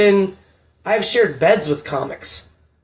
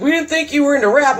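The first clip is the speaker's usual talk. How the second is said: rappers asking skeptically; 9 semitones higher than usual. Retold or imitated. Rappers questioning the comedian.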